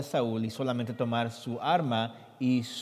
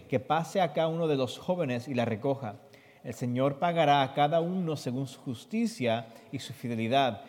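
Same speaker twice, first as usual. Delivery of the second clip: scripture reading. Acted. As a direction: read the verses out for the listeners. Reads Spanish scripture translation.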